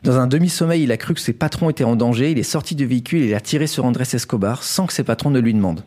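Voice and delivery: measured storyteller's news read; scripted story narration. Acted. Host tells co-hosts a Colombian crime story, scripted narration. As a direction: present it like a prepared radio chronicle.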